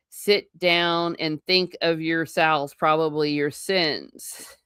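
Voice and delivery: lightly voiced stern preacher, slow; slow, half-hearted mock reproach; slow mock sermon. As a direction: lay it down slowly like a sermon. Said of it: "they talk in his Yorkshire dialect".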